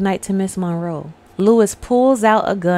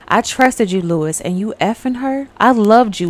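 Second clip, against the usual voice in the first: acted jealous outburst, louder on key words; hurt accusation; 5 dB louder than usual. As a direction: hammer out the betrayed accusation, mock-earnest. Acted confrontation over a betrayal.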